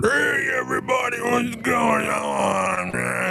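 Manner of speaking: very high, drawn-out mock scream; stretched-out falsetto yell, not full volume; imitated drunken screaming. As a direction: imitate a drunk hollering into a mic. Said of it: "he starts screaming into my microphone".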